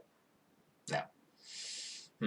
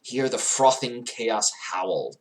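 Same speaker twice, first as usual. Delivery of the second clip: savoring recital; 4 dB louder, slower than usual. Real, not acted. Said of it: "I love that".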